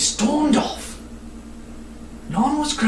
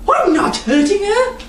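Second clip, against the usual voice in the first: put-on higher girl's voice, defiant; girl protesting; 10 semitones higher than usual. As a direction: insist you mean no harm. Madeline answers Nye.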